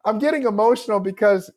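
real emotion breaking through a laugh; fighting back a catch in the throat; choked up. Real, not acted. Author tearing up while answering the podcast host, choked up. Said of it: "why am I getting emotional now".

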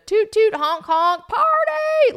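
high, loud honking imitation; loud sing-out of traffic noise; mock city racket. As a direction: blare it out like car horns.

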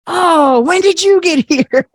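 high-pitched mock delighted surprise; retold surprise. Forgetful relatives return, find speaker there.

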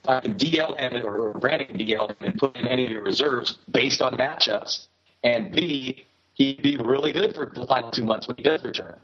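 garbled, breaking-up connection; garbled audio. Real, not acted. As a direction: voice garbled over a bad line. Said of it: "you're getting a little garbled".

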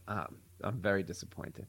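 low, soft, let down; disappointed mother. Retold or imitated. Mother scolding her son, soft and disappointed. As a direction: say it quietly, heavy with disappointment. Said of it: "All she had to do was say".

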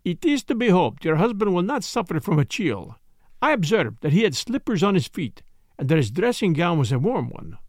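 put-on lightly accented, polite detective; courteous, measured foreign gentleman, lightly voiced; Poirot. Detective soothing a startled wife, lightly voiced courtesy.

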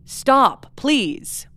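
mild mock begging; retold pleading. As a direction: plead lightly. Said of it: "another pleading from Johnny".

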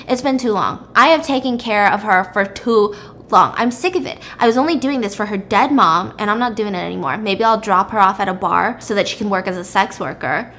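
mildly aggressive retold phone rant. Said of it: "he's saying it very, like, aggressively".

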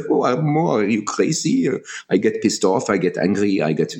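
light imitation of a French accent; lightly put-on French accent. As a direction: imitate a friend's French accent, mildly incredulous. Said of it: "funny, lovely French accent".

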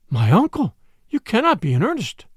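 frightened niece begging her stern uncle, high and pleading; pleading young woman. Acted. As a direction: plead with him in disbelief, pitch rising.

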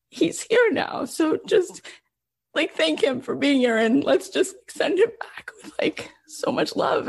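fighting back tears, barely voiced; tearful hush. Real, not acted. Telling kids, voice breaking.

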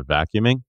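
"vacuuming." ends on a rising lift, like a question; rising uptick. Real, not acted. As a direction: let "vacuuming." rise at the very end instead of falling. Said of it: "I added the uptick on the pronunciation".

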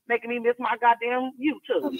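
laugh-shouting, pitch flying up into a cackle; laughing outburst. Real, not acted. Caller laughing through her rant about missing YouTube. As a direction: let the complaint collapse into a big laugh.

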